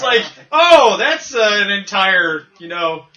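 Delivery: slow giggling worried voice; laughing. Retold or imitated. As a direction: say it through laughter. Voicing Han, laughing.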